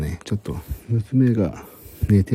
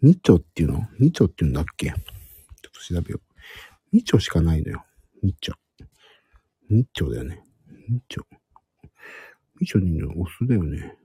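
hushed whisper throughout. Real, not acted. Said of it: "今日はひそひそ声で話しております。".

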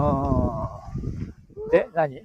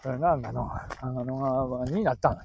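Tsugaru dialect; 3 dB quieter than usual. Acted. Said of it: "やって、津軽弁で。".

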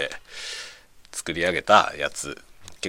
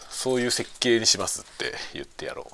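whispered with a laugh; 4 semitones higher than usual. Real, not acted. Joking plan to defy colleagues. (笑いながらささやく)

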